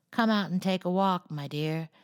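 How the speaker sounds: funny parrot. Acted. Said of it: "saying in his funny way".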